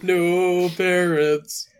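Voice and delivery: very slow brooding raven. Acted. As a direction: drag it out like a gloomy bird. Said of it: "I get to do that Raven voice again".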